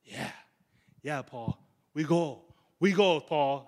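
imitating eager Timothy pumping himself up; fired up. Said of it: "maybe he was getting fired up".

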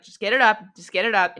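a father urging his son to get it up. Acted. A father urging his sick son, insistent. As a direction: push him gently, insistent. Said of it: "he's like".

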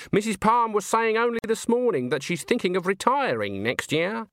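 high-pitched chatty witch voice; witch, gossiping. Acted. Witch telling her friend about Missus Palm's plans, gossiping.

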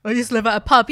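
a touch of broad Cockney landlady; a hint of Cockney pub landlady; Cockney accent slip. Real, not acted. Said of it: "You went very Peggy Mitchell".

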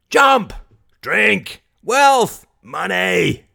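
high, separate shouted words; crowd cries. Acted. Crowd clamouring back at Mary, high shouted cries. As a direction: call out like scattered voices in a mob.

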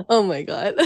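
amused, laughing exclamation. Real, not acted. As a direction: laugh through the words as you are being hyped up. Guest laughs at being hyped up.

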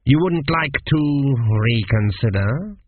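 slow, oily menace; oily examiner. Acted. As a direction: tempt him to change the answer. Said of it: "examiner's voice to grease a wagon".

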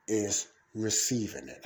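deliberate pause, then emphasis on "receiving"; stress on RECEIVING. Real, not acted. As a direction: set "receiving" apart after a pause. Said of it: "I put emphasis on that".

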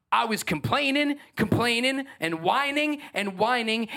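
high, repetitive mock complaint; mock whining. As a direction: drone on high, each word another grumble. Mimicking own past endless whining.

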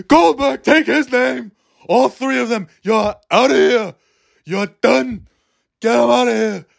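put-on high, barking old New York teacher; Ken Jacobs impression. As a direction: throw them out like a fed-up New York old-timer. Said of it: "that's what Ken Jacobs sounded like".

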